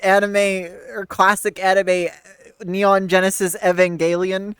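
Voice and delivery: loud exasperated protest. Real, not acted. Protests about the anime.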